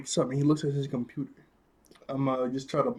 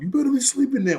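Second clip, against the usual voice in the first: high-pitched, louder mock yell; retold yell; 11 semitones higher, 6 dB louder than usual. Reviewer retelling Jim's yell at the kids, mock yelling. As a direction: imitate someone yelling from outside the room. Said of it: "we hear him yell outside".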